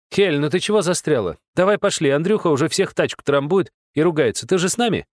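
высоко и громко, торопит подругу; звонкий оклик весёлой девицы; бойкая подружка зовёт. Acted. Подружка зовёт Хель из толпы. (подружка торопит Хель, зовёт громко и высоко)

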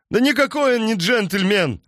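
high, loud furious roar. Acted. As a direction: roar it as an outraged farmer. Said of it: "взревел крестьянин".

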